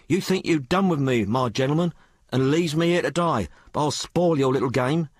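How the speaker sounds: put-on high-pitched, colloquial working girl; working-class maid Sal. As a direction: tell it as an uneducated maid confiding in her mistress. Sal quoting the dying woman.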